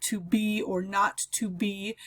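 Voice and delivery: slow, light-heavy beat on each pair of syllables; iambic rhythm. Shown as a demonstration. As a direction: read "To be or not to be" as da-DUM da-DUM da-DUM. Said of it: "we've got a set of three iambs there".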